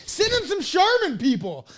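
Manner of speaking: high, loud, slow laughing appeal; laughing plea. Real, not acted. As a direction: plead while laughing.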